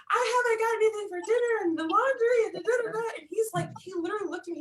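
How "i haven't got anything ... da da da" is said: retold bawling. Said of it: "I'm, like, bawling, crying".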